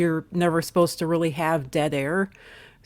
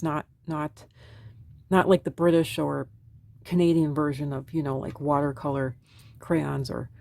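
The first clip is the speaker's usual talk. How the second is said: weak recovering voice; 3 dB quieter than usual. Real, not acted. Recovering vlogger explaining oil pastels over her drawing, weak quiet voice. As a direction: talk gently, voice not fully back. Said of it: "it's gonna be very quiet".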